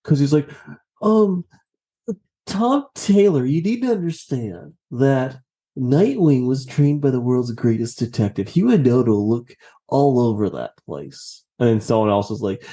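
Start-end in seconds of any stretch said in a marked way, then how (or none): 1.0-11.4 mock pedantic complaint. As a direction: imitate a fussy fan correcting the writer. Mocking a complaining Twitter fan.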